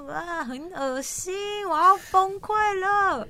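melting down in disgust; grossed out at the memory, the voice climbing to a squeal; real disgust. Real, not acted.

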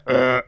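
burp demo. Shown as a demonstration. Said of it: "有些人打嗝是这样".

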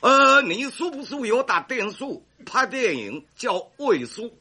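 Taiwanese-accented Mandarin, lightly put on. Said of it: "这位说台湾国语啊".

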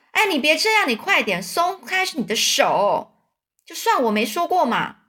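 high and loud, begging to be let go; loud plea. A narrator's reading. King being choked by the duke, loud plea. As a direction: cry out to be released. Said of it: "这国王就大声的说".

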